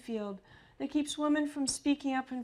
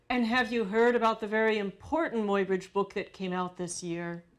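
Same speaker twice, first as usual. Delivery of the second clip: smug host; 4 dB louder than usual. Retold or imitated. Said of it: "He cut me off".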